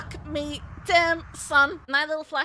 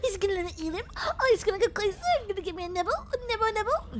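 eager dog; 5 dB quieter, much faster than usual. Acted. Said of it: "He's like a dog".

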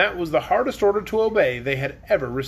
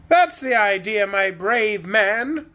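higher, grand queen voice; queen agreeing; 4 semitones higher, slower than usual. Acted. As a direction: praise him like a haughty queen. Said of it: "agreed Anne".

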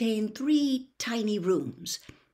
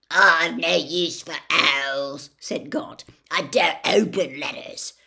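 gruff dismissal; 2 semitones lower, 6 dB louder than usual. Acted.

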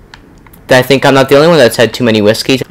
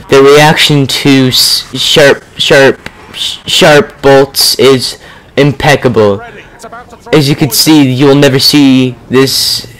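nature documentary; slower than usual. Pretend. Mock nature documentary narration over rats.

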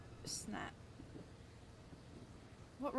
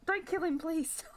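higher and louder, desperate begging; loud plea; 6 semitones higher, 5 dB louder than usual. Real, not acted. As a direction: yell the plea as the knife comes. Begging the game killer.

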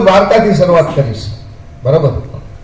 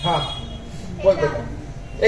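gentle coaxing; 3 semitones lower, 12 dB quieter, much slower than usual. Real, not acted. Coaxing a shy child.

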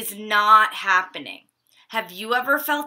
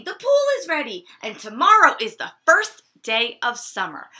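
excited; 3 semitones higher, 3 dB louder than usual. Acted. Molly excited pool ready.

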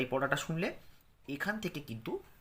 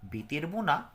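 poem recitation. Shown as a demonstration.

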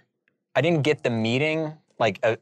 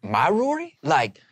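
much higher excited put-on voice; high, louder hammed-up recognition call; Rob Dyrdek impression; 8 semitones higher, 3 dB louder than usual. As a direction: act out the star recognising the sign kid, pitched way up. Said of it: "Rob impression".

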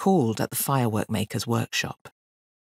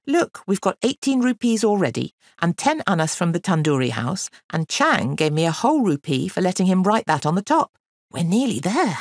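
lightly voiced boy, pitched up, persuading; eager scheming boy; 5 semitones higher, 3 dB louder than usual. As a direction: coax your friend with the good news. Boy counts his takings eagerly.

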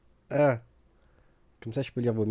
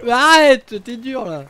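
loud protest; 14 semitones higher, 17 dB louder, slower than usual. Real, not acted. Protesting at harsh insult.

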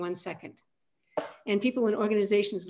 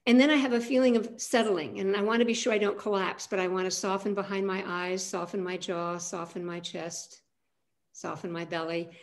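guided settling. Acted. Talks through settling into the body.

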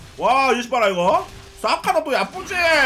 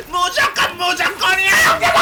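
흥분한 고함; 3 dB louder than usual. Real, not acted. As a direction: build from a shout into a shriek. 결정적 순간에 외침. (점점 치솟아 비명처럼 끝나는 고함)

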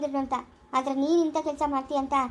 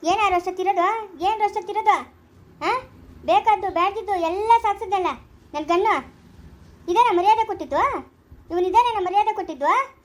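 bitter angry rebuke; 4 semitones higher than usual. Acted. Parent berating the son for shaming the family, angry. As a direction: throw his disgrace back in his face.

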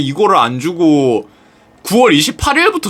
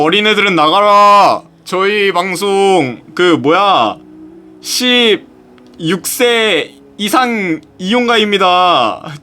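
slow, drawn-out playful announcement; mock age warning; much slower than usual. Streamer shooing underage viewers off, mock-solemn warning. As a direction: announce it in mock sternness, stretching it out.

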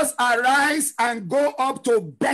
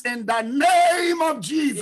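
declaration; 3 semitones higher, 3 dB louder, slower than usual. Real, not acted. Climax of a shouted declaration.

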